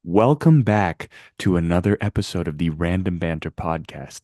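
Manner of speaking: slow deliberate intro read. Shown as a demonstration. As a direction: say it slowly and clearly. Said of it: "Say it slower".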